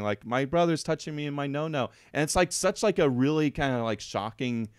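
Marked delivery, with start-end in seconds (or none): 0.2-1.9 mocking. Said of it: "mockingly calling the nine one one".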